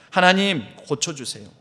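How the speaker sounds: retold night prayer, crying out for healing; imitating a sobbing cry. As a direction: call out to God, then beg. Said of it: "간절한 마음으로 흐느끼며 부르짖는데".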